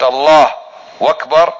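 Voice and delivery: "أكبر" voiced as "وأكبر" after "الله"; "الله وأكبر" split slightly apart; takbir with waw. Shown as a demonstration. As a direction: demo of the error: a w sound before "أكبر". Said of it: "يضع حرف الواو بين الله وبين أكبر".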